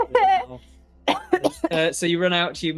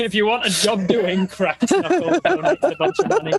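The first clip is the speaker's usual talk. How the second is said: hammed-up donation plea; 4 semitones higher, 6 dB louder than usual. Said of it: "performing a donation call".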